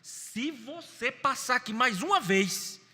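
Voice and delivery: put-on a firm adult warning a boy at church; stern warning to a boy. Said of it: "Na terceira eu levantei".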